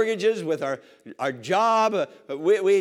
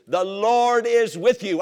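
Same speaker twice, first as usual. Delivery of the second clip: tag; 4 semitones higher, 4 dB louder, slower than usual. Real, not acted. Slowed proclamation of promise.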